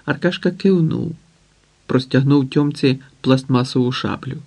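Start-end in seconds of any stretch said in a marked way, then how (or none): none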